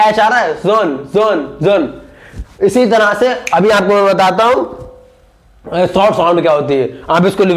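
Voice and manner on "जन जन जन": जन with the vowel held long; teacher modelling जन with a long vowel; long sound demo. Shown as a demonstration. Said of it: "इसकी sound long आ रही है".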